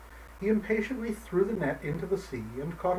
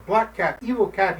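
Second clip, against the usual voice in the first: louder, higher angry words; raging; 5 semitones higher, 6 dB louder than usual. Acted. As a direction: spit them out in rage. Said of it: "he raged".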